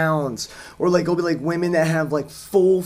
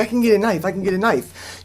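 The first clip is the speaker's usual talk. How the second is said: higher, insistent mock panic; pitched-up, repetitive retold fluster; imitated freak-out; 5 semitones higher than usual. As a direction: imitate a man frantically offering help. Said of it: "he's, like, freaking out".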